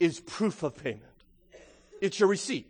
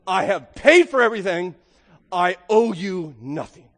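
defiant claim; 5 dB louder than usual. Pretend. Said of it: "and say".

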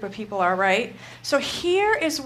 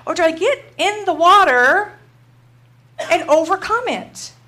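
inner resolve; 2 semitones higher, 4 dB louder than usual. Retold or imitated. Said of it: "So I'm like".

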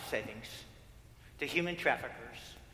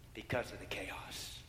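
softer and slower, lingering on each word; slow, soft repeat; 6 semitones lower, 7 dB quieter than usual. Acted. Preacher repeats the chaos softly for the congregation. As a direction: let the phrase settle slowly and softly.

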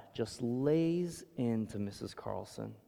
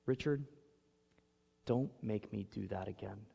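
quietly; 7 dB quieter than usual. Retold or imitated. Dad in the car to his son, quiet and firm. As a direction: say it quietly, no anger in it. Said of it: "just says to me quietly".

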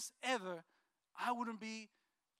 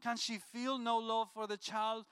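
scripture reading; 3 dB louder than usual. Acted. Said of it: "the Lord's response was".

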